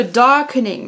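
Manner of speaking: "darkening" in a self-mocking English accent; French speaker saying "darkening" with an English accent. Shown as a demonstration. Naming the foundation darkener to viewers, with a jokey English accent. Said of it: "vive mon accent anglais".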